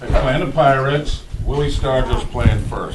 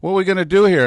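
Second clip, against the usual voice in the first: mock worried; 8 semitones higher, 7 dB louder, much faster than usual. Voicing Stargell's mock-worried question.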